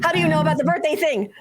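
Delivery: high, quick, flustered demand; upset. Acted. Embarrassed girl confronting a teammate about the birthday thing, upset. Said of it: "like, upset".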